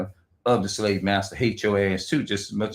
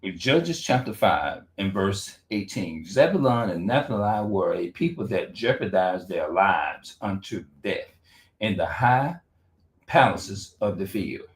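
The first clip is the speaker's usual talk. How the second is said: reading the Bible aloud; 2 semitones lower than usual. Real, not acted. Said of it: "I'm just gonna read the Bible".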